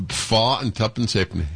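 imitated Yorkshire market price; Yorkshire accent. Shown as a demonstration. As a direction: mimic the baffling Yorkshire dialect. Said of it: "had he said it in Bulgarian".

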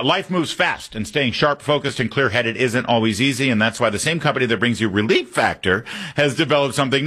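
upbeat radio ad read. Acted. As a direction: sell it like a live read. Host reads sponsor ad.

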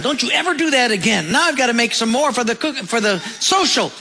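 a mother retelling her yell at her son, lightly scolding. Retold or imitated. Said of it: "The mother yelled at him".

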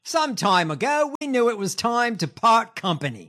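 a self-mocking, bad Australian accent; lightly put-on Aussie accent, half laughing. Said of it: "in my shitty Australian accent".

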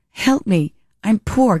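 light mock plea; lightly voiced Bridesmaids lady; quoting Bridesmaids line. Quoting the poor airplane lady from Bridesmaids, mock plea. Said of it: "Like the lady on the airplane in Bridesmaids".

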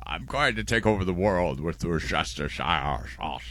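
scheme in a put-on British actor voice; shaky attempt at British film-star accent; Michael Caine. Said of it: "I'm not doing it right either".

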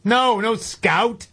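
drawn-out, high, firm no; emphatic refusal. Real, not acted. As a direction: stretch each no out to shut it down. Firm veto of a baby name.

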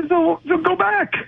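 very high, drawn-out exclamation; emphatic urging. Real, not acted. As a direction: push it out high and slow. Urging a return to college.

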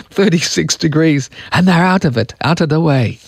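fading attempt at Irish; Irish accent. Radio host quoting Irish builder, fading Irish accent. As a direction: let the Irish accent slip away. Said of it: "I lost the accent".

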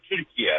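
"Turkey" said the Turkish way, as Türkiye; Turkish pronunciation. Shown as a demonstration. Caller showing hosts how Turks say it, Turkish pronunciation. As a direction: pronounce "Turkey" as a Turkish speaker says Türkiye. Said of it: "The way Turkish people pronounce it".

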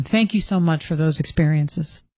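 dryly sarcastic thanks. Real, not acted. Producer thanking the boss for late-night headaches, sarcastically. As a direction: thank them with understated sarcasm. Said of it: "Do I hear sarcasm in that voice".

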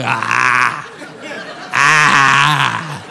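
mock heavy breaths through a slack open mouth; open-mouth breathing. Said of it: "just breathing open mouth style".

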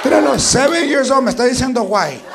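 hammed-up incredulous mom; mother outraged at her seven-year-old; mock outraged mother.

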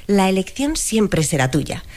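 calm synthetic AI voice. Pretend. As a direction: read it like a chatbot voice. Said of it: "voz de inteligencia artificial".

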